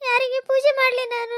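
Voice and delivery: tearful question; crying. Acted. Widow asking whom she can worship, crying. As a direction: ask it as the tears come. Daughter-in-law explaining her grief.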